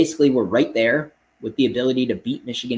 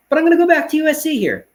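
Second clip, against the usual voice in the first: excited reversal; 7 dB louder, faster than usual. Real, not acted. Surprise reversal of pick.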